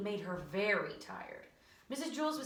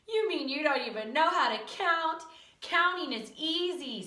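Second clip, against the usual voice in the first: mocking disbelief; 6 semitones higher, 6 dB louder than usual. Classmates laugh at Joe's counting.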